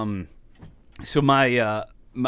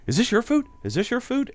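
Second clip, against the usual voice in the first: high shrill-free mock yell of the lady, higher pitch; screaming psychologist; 13 semitones higher than usual. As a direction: imitate the lady accusing him, pitched up. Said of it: "she's like".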